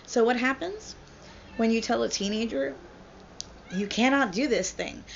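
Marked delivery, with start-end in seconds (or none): 3.7-5.0 firm, measured parental order; stern prohibition. Acted. Parent forbidding a teenager, stern and controlled. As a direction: lay down the law to a teenager.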